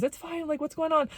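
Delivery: high, soft retold reassurance; gentle concern. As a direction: softly coax a friend to open up. Friend gently checks on her.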